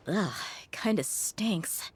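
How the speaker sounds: slow, whispered disgust. Acted. Opening the old man's box and catching the stink, whispered disgust. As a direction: recoil from the smell under your breath.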